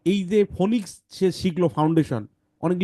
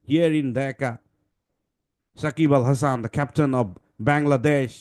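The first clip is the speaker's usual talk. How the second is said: put-on English commentator accent; much slower than usual. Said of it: "cricket খেলায় দেখেন, বলে".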